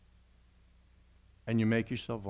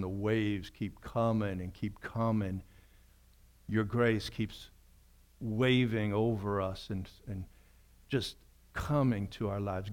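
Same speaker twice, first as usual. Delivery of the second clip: prayer. Acted. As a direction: pray gently on their behalf. Prays aloud.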